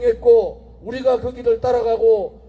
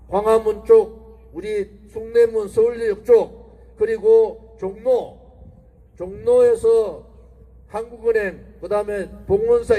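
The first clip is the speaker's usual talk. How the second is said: slow, deliberate listing; slower than usual. Real, not acted. Listing streets slowly to crowd.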